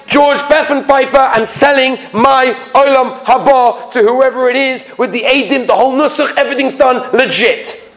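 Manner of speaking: hammed-up eager dealer; brisk mock dealmaking. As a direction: rattle off the terms in a high voice. Jokers eagerly sealing a mock deal.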